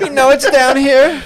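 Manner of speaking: high, slow, laughing voice; put-on mock accent. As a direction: grumble like a comic sea dweller.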